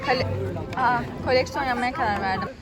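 talking while chewing gum; words round a wad of gum. Real, not acted. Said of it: "O kadar çok sakız çiğniyorum".

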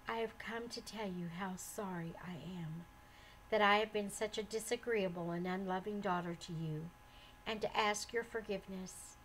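soft, sincere apology; gentle, soft. Acted. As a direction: speak gently and softly. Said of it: "said Forgiveness gently".

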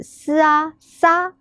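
嘶啊 blended into 沙, "s", "a", "sa"; sounding out syllables. Shown as a demonstration. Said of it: "它念沙的声音".

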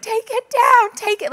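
put-on high, loud bossy kid voice; mock a toddler's order; child's demand. Mother imitating her son's demand to take her hair down.

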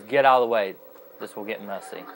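lightly imitating a calm, unexcited warning; without exclamation. Gamer imitates the agent's deadpan line, no emphasis. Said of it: "he don't say it with exclamation".

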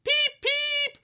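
very high engine-whistle peep; shriek. A narrator's reading. Storyteller voicing Thomas in alarm, high shriek. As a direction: squeal it like a train whistle. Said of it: "shrieked Thomas".

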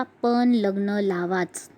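very slow, drawn-out insistence; emphatic insistence. Acted. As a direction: draw each word out with firm finality. Insists on the wedding in quote. (ठासून, अगदी सावकाश)

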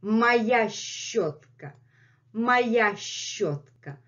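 slow, lightly voiced cat; the cat insists on its brush, slowly; Messi's voice. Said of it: "Messi is saying".

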